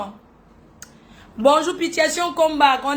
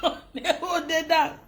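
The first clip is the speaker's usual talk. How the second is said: laughing; 4 semitones higher, 5 dB quieter than usual. Real, not acted. Laughing catchphrase.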